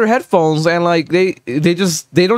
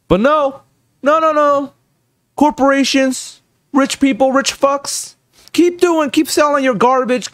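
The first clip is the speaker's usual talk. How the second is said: higher, mocking go-ahead; sarcastic rant; 5 semitones higher than usual. Real, not acted. Streamer mocking rich polluters sarcastically. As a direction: goad them sarcastically.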